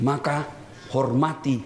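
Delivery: ordinary talk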